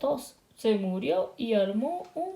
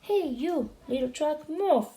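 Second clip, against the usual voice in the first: higher mock yell; a hammed-up shout rising to move; 5 semitones higher than usual. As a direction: call the little truck away. Translated yelling sweeper.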